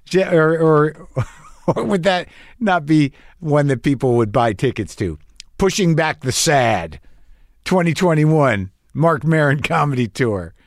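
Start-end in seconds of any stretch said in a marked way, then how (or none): 5.6-10.5 slow announcer-like title read, lightly done; hint of a promo voice; mock tour title. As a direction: pitch it like a marquee. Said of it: "good name for a comedy tour?".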